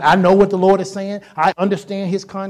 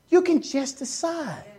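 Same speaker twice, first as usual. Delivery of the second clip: the same line again, softer; softer echo; 5 semitones higher, 6 dB quieter, slower than usual. Shown as a demonstration. Preacher repeating to the church, quiet and firm. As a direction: drop it to a quiet, certain echo.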